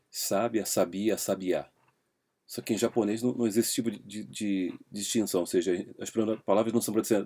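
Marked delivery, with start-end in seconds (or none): 0.1-1.7 sábia, sabia, sabiá each with the stress on a different syllable; stress shift demo. Shown as a demonstration. Teacher contrasting Portuguese stress for the class. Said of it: "o exemplo clássico do português".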